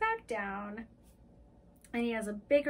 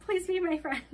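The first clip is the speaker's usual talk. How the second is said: mock begging, slightly raised and louder; 5 semitones higher, 3 dB louder than usual. Joking demo of making friends, playful begging. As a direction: plead for friendship in a silly way. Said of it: "be really stupid and funny and then beg".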